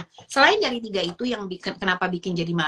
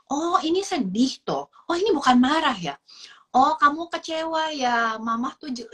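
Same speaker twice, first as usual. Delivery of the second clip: put-on gentle talk to child; 3 semitones higher than usual. Shown as a demonstration. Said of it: "aku harus bilang".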